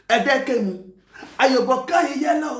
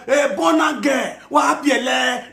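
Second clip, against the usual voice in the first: jeering shout; mocking call; 3 semitones higher, slower than usual. Real, not acted. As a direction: drag out the taunt.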